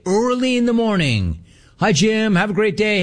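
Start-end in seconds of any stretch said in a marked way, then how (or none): 1.8-3.0 high, bright mock-cheery greeting; cheerful barista. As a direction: imitate a happy morning barista, pitched up. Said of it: "she's happy every freaking day".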